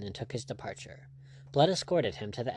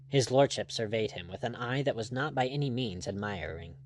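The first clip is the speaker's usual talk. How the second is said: ordinary delivery, nothing marked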